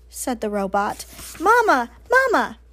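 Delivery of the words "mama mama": put-on high, loud baby-bird cry; peeping gosling. A narrator's reading. Gosling calling to the robot as mother, high peeping. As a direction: peep like a needy hatchling. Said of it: "peeped the gosling".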